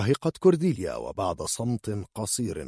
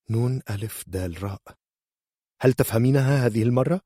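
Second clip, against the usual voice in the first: patronizing spelling; 4 semitones higher, faster than usual. Acted. Spells again, mocking.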